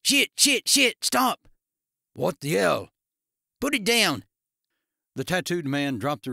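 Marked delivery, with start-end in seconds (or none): 0.0-1.5 Australian man shrieking in agony, much higher and louder. A narrator's reading. Darren shrieking as the tattooed man lifts the recliner, agonized shriek. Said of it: "Darren shrieked". 2.1-4.3 pained yell. A narrator's reading. Darren screaming in pain.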